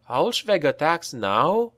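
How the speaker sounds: put-on young soldier crying out in alarm; cried out. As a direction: blurt it out in alarm while hurrying. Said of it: "cried Karel".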